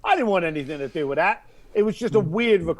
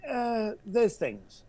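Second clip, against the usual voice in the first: slow, softer, hinting at something unsaid; trailing off quietly; 6 dB quieter, much slower than usual. Retold or imitated. Caller hinting at a secret, slow and hushed. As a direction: let it fade out, slow and hushed. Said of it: "that little bit at the end".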